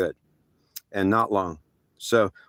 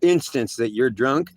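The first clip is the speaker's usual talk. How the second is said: stern threat; 2 semitones higher, slower than usual. Retold or imitated. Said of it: "they're saying".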